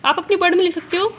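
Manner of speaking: teacher dictating the model answer to students; slow dictation. Shown as a demonstration. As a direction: answer dictated word by word with long gaps. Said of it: "मतलब power लिख दीजिए".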